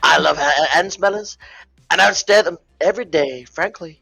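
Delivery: lightly voiced Trump boasting, only a hint of his voice; a tipsy, half-hearted Trump bragging about Anne; Donald Trump impression. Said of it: "That's all I got".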